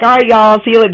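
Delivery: light southern y'all from a Boston speaker; southern y'all slipping in. Retold or imitated. Boston speaker saying goodbye to friends with a southern y'all. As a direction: borrow the southern y'all casually. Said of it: "I end up saying".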